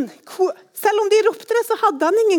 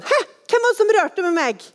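surprised question; 6 semitones higher than usual. Acted. Jesus asks who touched him.

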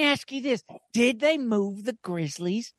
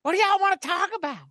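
Harry Caray impression; 3 semitones lower than usual.

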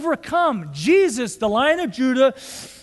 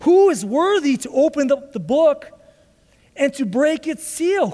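mildly raised proclaiming voice; loud angel's proclamation; 3 dB louder than usual. Retold or imitated. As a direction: proclaim it as if to all heaven. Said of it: "That's with a loud voice. He's screaming".

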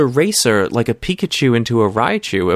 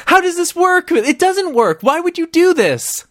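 laughing disbelief. Real, not acted. Reacting to the commercial, laughing.

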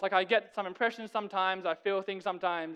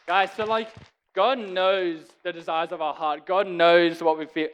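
louder preaching to the room; too loud; 7 dB louder than usual. Real, not acted. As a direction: project hard to the whole room. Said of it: "Am I too loud?".

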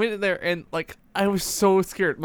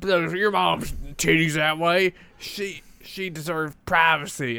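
stern dad voice; slower than usual. Retold or imitated. Dad scolding voiced in a story.

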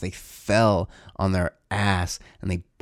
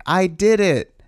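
imitating his son; 9 semitones higher, 4 dB louder, slower than usual. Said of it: "at the end go like".

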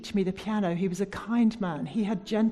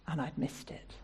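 much lower, whispered regret; regretful whisper; 5 semitones lower, 9 dB quieter than usual. Real, not acted. Preacher ending her dream story, whispered regret. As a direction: let it fall away in sorrow.

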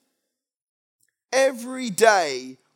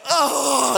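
higher "oh" recoiling from a smell; disgusted gasp; 4 semitones higher than usual. Acted. Squeezed commuter reacting to a stranger's armpit, disgusted gasp. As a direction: gasp as if about to pass out. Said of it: "and you go".

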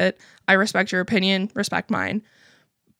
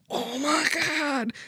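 stunned laugh; 5 semitones higher, 4 dB quieter, slower than usual. Retold or imitated. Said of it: "And I'm like".

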